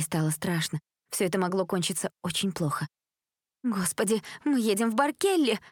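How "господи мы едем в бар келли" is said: alarmed gasp. Acted. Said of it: "выдохнула Джессика".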